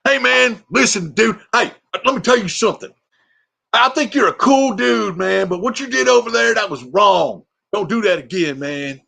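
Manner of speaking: high, loud, bro-ish scolding voice; sergeant Larry. Retold or imitated. Sergeant scolding a colleague, high and loud. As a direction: pitch up and lecture like a buddy cop. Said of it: "Do Larry, my sergeant".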